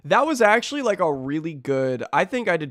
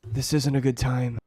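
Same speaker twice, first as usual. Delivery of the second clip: Mark; 4 semitones lower than usual. Acted. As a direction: speak it low to the villain, defeated. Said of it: "with Mark".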